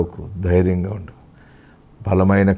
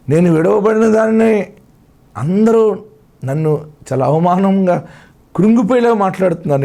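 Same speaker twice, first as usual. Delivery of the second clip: voiced lament; 9 semitones higher, 3 dB louder than usual. Voicing the grieving believer's lament.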